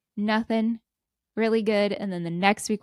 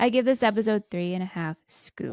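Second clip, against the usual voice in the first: whispering. Pretend. Mock rating said in whisper.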